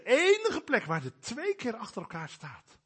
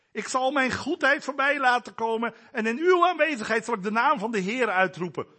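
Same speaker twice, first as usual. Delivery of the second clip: God's voice; 6 semitones higher, 7 dB louder than usual. Acted. Preacher voices God quoting scripture.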